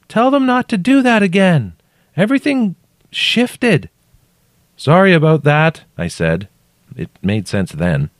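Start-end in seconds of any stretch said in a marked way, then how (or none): 0.1-3.9 very high, weakened call from below; weaker. A narrator's reading. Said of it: "Her voice was definitely weaker". 4.7-5.8 high, loud called apology; calling down. A narrator's reading.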